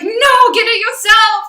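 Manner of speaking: sudden high yelled no; mock scream. Burnt-out diner yelling at a family member asking for salt. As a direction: snap back at them, loud and high. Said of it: "scream at them".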